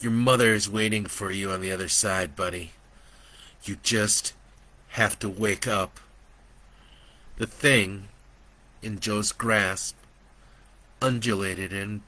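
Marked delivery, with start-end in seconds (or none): 0.0-6.0 gentle reassurance. Acted. Joe soothes Brandon.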